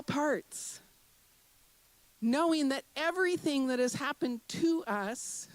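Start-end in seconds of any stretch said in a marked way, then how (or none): 3.0-5.5 "to" leaned on in "to us"; stress on TO. Shown as a demonstration. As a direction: put the weight on the word "to". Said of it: "do you hear that? To us".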